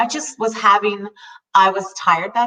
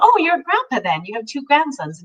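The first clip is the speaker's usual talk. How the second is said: bright put-on niceness, pitched up; fake friendly; 5 semitones higher than usual. Making small talk with a grumpy client, fake friendly. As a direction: sound cheerful while forcing it. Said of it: "it was fake 'cause I was just trying to".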